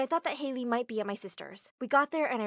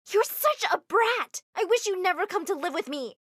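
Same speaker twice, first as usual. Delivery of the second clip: aunt yelling at her niece outside the mall; 9 semitones higher, 6 dB louder than usual. Acted. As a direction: blow up at the kid. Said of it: "I was yelling at her".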